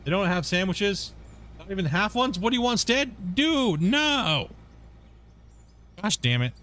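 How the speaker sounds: can't believe the sandwiches are gone; dismayed disbelief. Real, not acted. Finds no sandwiches in store.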